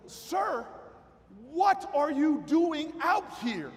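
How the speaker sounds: mild mock yell through the car window; retold yell. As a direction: call out over the storm, drawn out. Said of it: "but I yell at this man".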